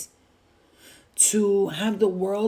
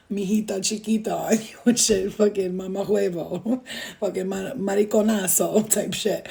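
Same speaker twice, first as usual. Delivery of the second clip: Spanish accent. Shown as a demonstration. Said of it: "I'm doing a Spanish accent".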